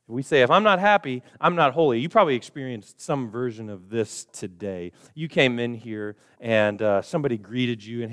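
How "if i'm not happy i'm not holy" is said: emphatic mantra. Retold or imitated. Repeated trap, louder.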